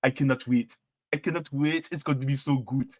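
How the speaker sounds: a light, playful Nigerian lilt; Nigerian accent. Pretend. Streamer teasing viewers about a new book, in a light Nigerian accent. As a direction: channel her inner Nigerian, just lightly. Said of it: "I'm appealing to my inner Nigerian".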